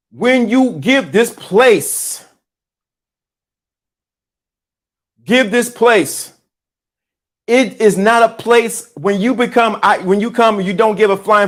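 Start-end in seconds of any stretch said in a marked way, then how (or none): 0.1-9.8 slow, each word weighed; slow and deliberate. Real, not acted. Preacher slowing down to drive the point home, slow and weighty. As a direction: drag it out so it sinks in. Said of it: "Let me say this again".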